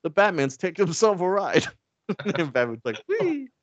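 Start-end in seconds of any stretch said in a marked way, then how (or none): 0.0-1.7 high-pitched gawker calling out; folksy audience member. Retold or imitated. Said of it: "some guy in the audience is like". 3.1-3.5 very high, drawn-out squeal; mock gleeful whee. Batman riding the giant ball.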